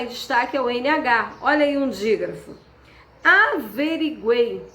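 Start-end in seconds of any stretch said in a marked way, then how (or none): 3.2-4.6 Averiguei drawn out slowly to show the vowels; slow spelling-out. Shown as a demonstration. Teacher to class showing the triphthong, slow and drawn out. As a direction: stretch Averiguei so the três sons vocálicos ring out. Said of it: "três sons vocálicos na mesma sílaba".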